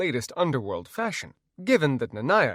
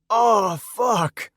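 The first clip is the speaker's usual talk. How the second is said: sudden high yell of pain; 10 semitones higher, 8 dB louder than usual. Acted. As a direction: shout it out in shock. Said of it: "I yelled".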